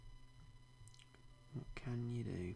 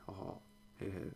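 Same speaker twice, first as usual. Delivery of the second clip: mock Santa laugh. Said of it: "That's more Santa".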